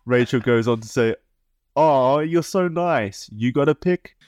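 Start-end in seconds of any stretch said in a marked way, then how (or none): 1.7-4.2 put-on high, slow, sugary teen girl; a lightly voiced teen girl thanking him sweetly; sweet decoy voice. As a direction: coo it like a flattered young girl.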